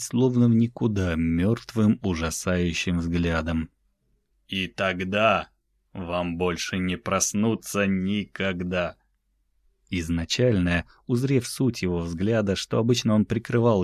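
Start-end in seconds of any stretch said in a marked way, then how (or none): 4.5-9.0 зловещий тихий голос. Acted. Дюк мрачно предупреждает.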